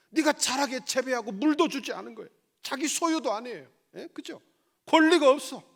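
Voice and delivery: loud, high challenging questions from the pulpit; forceful preaching. Real, not acted. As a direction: fire the questions at them, punching key words. (높고 큰 목소리로 따져 묻듯 설교)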